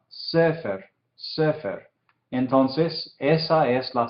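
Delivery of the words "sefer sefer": sefer said as SE-fer, weight up front; stress on the first syllable. Shown as a demonstration. Teacher showing where emphasis falls, sefer stressed on its first syllable. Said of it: "el énfasis cae en la primera sílaba".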